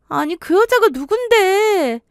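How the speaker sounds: high, drawn-out incredulous question; bewildered demand. Acted. Daughter asking aunt who that woman is, bewildered. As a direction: push for the answer, pitched high and baffled.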